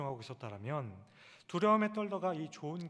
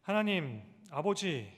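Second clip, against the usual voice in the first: calling out to God; 5 dB louder, slower than usual. Shown as a demonstration. Pastor shows the congregation how to cry out, calling loudly. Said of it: "이렇게 부르짖지 않습니까".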